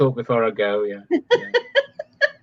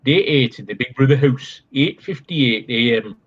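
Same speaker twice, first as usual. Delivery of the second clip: put-on Big Brother narrator's accent; 3 semitones lower than usual. Day-eight announcement for Big Brother, in an imitated narrator accent. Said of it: "Can you do Scottish?".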